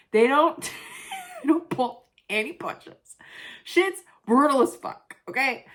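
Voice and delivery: laughing rant. Real, not acted. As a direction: laugh while ranting.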